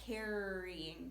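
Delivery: "carrying" with the R held in the first syllable; bossy R. Shown as a demonstration. Teacher showing how R changes the vowel, bossy R stressed. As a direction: lean on the R in "carrying". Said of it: "that R is bossy".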